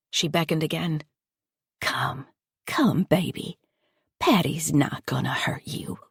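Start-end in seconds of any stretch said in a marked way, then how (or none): 1.8-6.0 soft coaxing. Acted. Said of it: "Her voice was soft".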